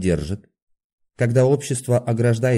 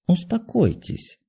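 slow, higher, apologetic plea to calm down; guilty soothing; 10 semitones higher, slower than usual. A narrator's reading. Doctor calms the raging patient, slow and apologetic. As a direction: soothe him with a guilty smile. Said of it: "виновато улыбаясь".

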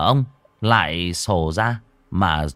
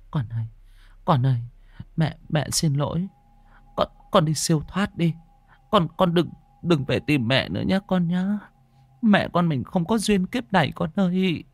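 tearful prayer; 9 semitones higher than usual. Acted. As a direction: plead gently with the ghost child. Mother prays to dead child.

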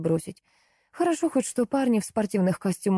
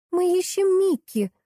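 put-on high squeaky child voice; little girl's high squeak; 11 semitones higher than usual. A narrator's reading. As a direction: squeak it out like a small girl. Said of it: "пропищала маленькая".

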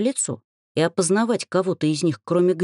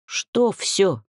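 grumbled; 4 semitones higher than usual. A narrator's reading. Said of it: "буркнула я".

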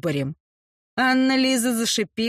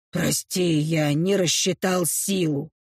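low apologetic orc; 7 semitones lower than usual. Acted.

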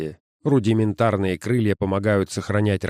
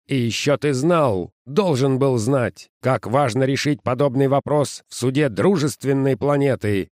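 angry boss; 4 semitones higher than usual. Acted. Boss scolding Sims.

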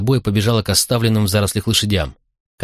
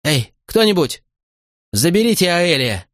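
high-pitched call for help; acted frantic appeal, pitch raised throughout; desperate call; 9 semitones higher than usual. A narrator's reading. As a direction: call out urgently for anyone to come. Mother calls for help.

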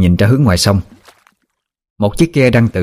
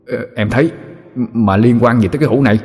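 lightly voiced fretting demon, higher; a touch of alarm, pitched up; agitated demon woman; 4 semitones higher than usual. Demon confides big trouble to her sidekick, mildly agitated.

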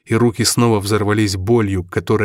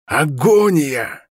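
Агония drawn out, very slow; hoarse slow cry; 5 semitones higher, much slower than usual. A narrator's reading. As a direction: drag out Агония harshly. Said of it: "прохрипел Стерлинг".

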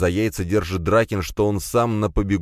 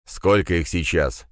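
sinister hiss. Acted. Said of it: "зловеще прошипел я".

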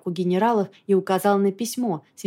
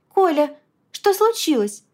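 worried; 8 semitones higher, 3 dB louder than usual. A narrator's reading. Worried friend finds him unresponsive.

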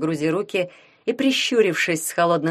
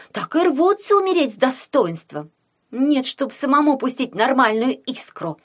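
grouchy put-on voice, rising higher; grumbling; 4 semitones higher, 3 dB louder than usual. A narrator's reading. Sklepova gripes about noble light mages, grumbling. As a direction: complain loudly, with scornful exasperation. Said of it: "проворчала Склепова".

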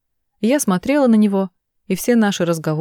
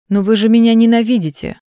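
exclaiming; 4 semitones higher, 6 dB louder than usual. Acted. Heroine confronts Pammy.

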